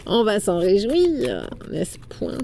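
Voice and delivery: slow gloating villain aside; mustache twirling villain. Pretend. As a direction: savor it like a schemer.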